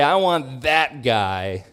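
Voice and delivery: slow, drawn-out lightly mocked demand; mock demanding rich man. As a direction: sneer a little like a spoiled man. Mocking the rich man's demand.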